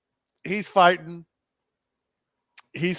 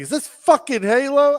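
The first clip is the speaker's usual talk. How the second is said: high, loud mock disbelief; incredulous; 10 semitones higher, 5 dB louder than usual. Podcaster repeating the fighter's reaction to the song, incredulous. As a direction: imitate a fighter aghast at his entrance song.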